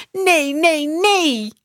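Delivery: high, loud, rising despair; desperate repeated no. Acted. Max as the bus turns the corner, loud despair.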